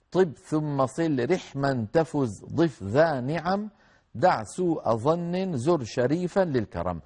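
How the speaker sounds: slow, measured verse reading; verse recitation. Acted. Teacher reads the mnemonic line to the class, slow recitation. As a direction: recite word by word with spaces between.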